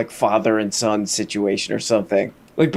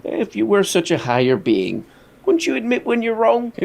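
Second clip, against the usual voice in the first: put-on disapproving older British guy, bone dry; 8 semitones higher than usual. Reactor mocking Piers questioning Russell, dry and disapproving. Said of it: "driest, disapproving older British guy thing".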